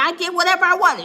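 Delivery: A rapper shouting his boast after hanging up; mock rapper shout. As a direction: bellow it like a bragging mogul. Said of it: "He said".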